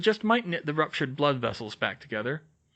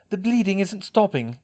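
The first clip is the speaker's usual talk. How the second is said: panicked; 7 semitones higher, 4 dB louder than usual. A narrator's reading. Molly panicking over bleeding.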